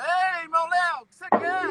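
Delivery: calling out from afar.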